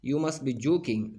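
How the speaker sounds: "You must be joking" rising to a peak, then falling; falling intonation. Shown as a demonstration. Teacher demonstrating intonation, falling "You must be joking". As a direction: drop away at the end of "You must be joking". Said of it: "falling intonation है".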